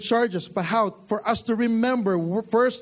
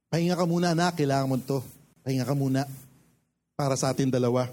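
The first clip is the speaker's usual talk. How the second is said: tender voice of God; 5 semitones lower, much faster than usual. Acted. God voiced gently to His child.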